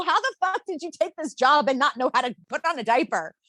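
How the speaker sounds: high-pitched incredulous question; mock exasperation. Mom's unspoken reaction to the babysitter, mock exasperation. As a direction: vent the thought you politely held back. Voices what she held back.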